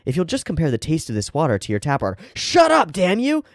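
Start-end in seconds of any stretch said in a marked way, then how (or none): 2.3-3.4 much higher and louder, snapping; furious yell. Acted. The fed-up customer shouting at the salesman, furious. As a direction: blast him to shut him up.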